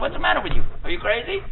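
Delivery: high, loud accusing yell; husband yelling. Retold or imitated. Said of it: "He said".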